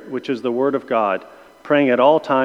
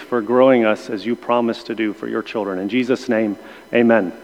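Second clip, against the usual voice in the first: steady, earnest prayer voice; opening prayer. Acted. Teacher praying aloud before the Bible study. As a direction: pray over the class.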